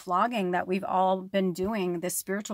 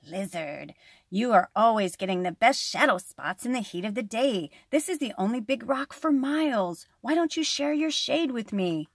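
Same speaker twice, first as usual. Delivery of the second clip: spitting snake; 3 semitones higher than usual. Acted. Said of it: "Snake spit his answer".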